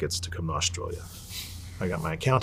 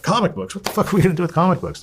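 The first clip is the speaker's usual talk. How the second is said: high, loud, fast disbelief; can't believe what he's hearing, fire it back at them; shocked and exasperated, nearly shouting; incredulous outburst; 9 semitones higher, 4 dB louder than usual. Retold or imitated. Incredulous reaction to friends' plan.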